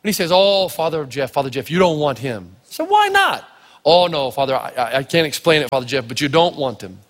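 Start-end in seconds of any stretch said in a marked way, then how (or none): 0.3-2.9 reluctant warning. Retold or imitated. Acts out reluctant caddy master's warning. 2.9-3.5 very high-pitched, indignant question, retold; incredulous challenge. Retells challenging the caddy master. 3.9-7.0 reluctant warning. Retold or imitated. Acts out reluctant caddy master's warning.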